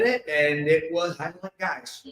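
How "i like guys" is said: softer, laughing admission. Real, not acted. Confessing he liked kissing a guy, softly laughing. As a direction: let the laugh leak through the confession. Punchline of first kiss story.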